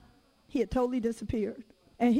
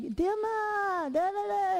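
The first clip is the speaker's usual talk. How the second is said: high-pitched, sing-out nonsense protest; imitated arguing child; 8 semitones higher, slower than usual. Mother imitating her tenacious daughter, mock protest. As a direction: mimic a child's complaint in a higher voice.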